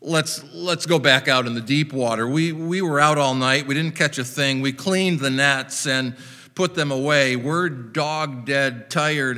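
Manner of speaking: weary, grudging sarcasm, trailing down on "boss"; exhausted worker humoring the boss; sarcastic. Acted. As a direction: grumble through it sarcastically, then give in. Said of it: "maybe he said sarcastically".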